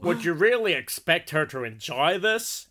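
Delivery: slow put-on Texan drawl; mock Texan accent. Reading Kate from Texas's comment, in a put-on Texan accent. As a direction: draw it out like a Texan. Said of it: "two commenters from Texas".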